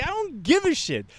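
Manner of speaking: high-pitched mock protest; dismissive retort. Answering her accusation of racism, high dismissive protest.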